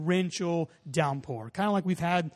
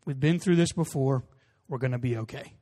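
calm reassurance; 4 semitones lower than usual. Retold or imitated. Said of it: "his calm demeanor".

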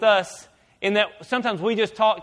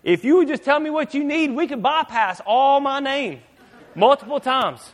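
impatient God; 5 semitones higher than usual. Retold or imitated. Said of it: "And He's saying".

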